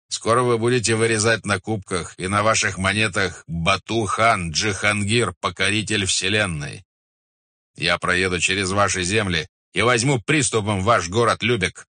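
lightly voiced proud khan; Batu Khan, boastful conqueror. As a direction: proclaim your coming conquests. (властный хан-завоеватель)

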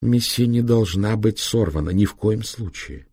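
intoned, insistent repetition; measured mantra; like an incantation. A narrator's reading. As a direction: recite it like a spell, slowing at the end. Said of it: "произнесла как заклинание".

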